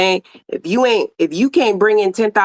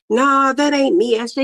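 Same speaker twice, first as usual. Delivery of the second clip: mock denial; 5 semitones higher than usual. Mocking viewer denying themself.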